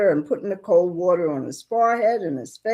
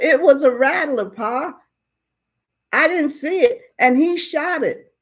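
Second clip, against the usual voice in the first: excited explanation; 7 semitones higher, 4 dB louder than usual. Retold or imitated. Boy excitedly explaining rescue.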